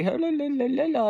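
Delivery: high sing-song la la; mock mom's talk as babble; mom's chatter as la la. Daughter mocking mom's talk as meaningless la la. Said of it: "if she'd say".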